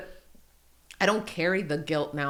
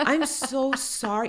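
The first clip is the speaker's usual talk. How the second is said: slow, higher, imitated remorse; tearful child's apology; 5 semitones higher, much slower than usual. Son apologizes to mom, slow and close to tears. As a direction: draw out a little boy's heartfelt sorry. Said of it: "looked like he was gonna cry".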